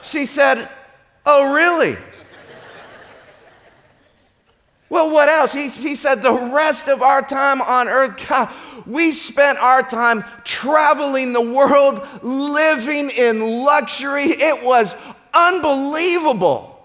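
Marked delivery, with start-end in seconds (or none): 1.2-5.5 higher and louder, mock pleasant; sarcastic. Wife answers husband's confession, sarcastic. Wife's icy sarcastic reply. 6.2-16.7 higher, slow savouring; gloating. Acted. Husband boasts to dead wife, gloating.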